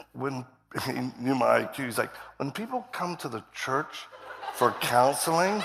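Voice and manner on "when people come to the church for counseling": imitating a colleague's careful, measured explanation; softer, patient talk after the shouting; real calm. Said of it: "he's talking real calm".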